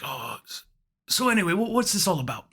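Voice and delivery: resume breezily as the British caller; Britishy accent. Retold or imitated. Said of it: "Britishy accent".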